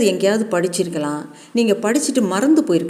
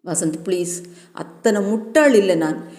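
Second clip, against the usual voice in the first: tearful pleading. Acted. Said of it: "எதுக்கு sir அழுகுறீங்க".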